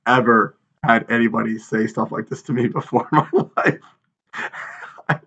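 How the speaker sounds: a touch of laughter breaking in; amused disbelief trailing into laughter; laughing. Real, not acted. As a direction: let a laugh break through at the end. Laughing at insult.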